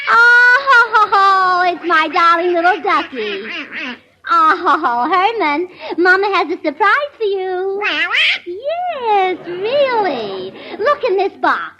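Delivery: sweet sing-song pet talk; cooing to a pet. Acted. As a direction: coo over him like a gushing mama. Gracie coos to her pet duck.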